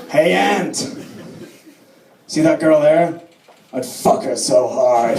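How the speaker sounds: slow, put-on Portuguese-accented leer; mock Portuguese accent, confiding and deliberate. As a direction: imitate a Portuguese Casanova, drawing out the last words. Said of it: "'cause that's how Portuguese people speak".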